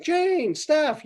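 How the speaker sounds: two friends spotting each other, high-pitched delighted hello; high happy greeting. Retold or imitated. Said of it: "they're like".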